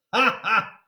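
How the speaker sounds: bursting out laughing. Real, not acted. Reader laughs at joke.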